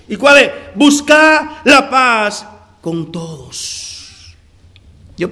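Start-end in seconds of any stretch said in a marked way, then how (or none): 0.8-3.9 "Buscar" stressed, each word slowly spaced; slow emphasis. Shown as a demonstration. Pastor driving home the forgotten half of the verse, slowly. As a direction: spell out "Buscar la paz con todos" deliberately. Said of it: "se nos olvida la primera parte".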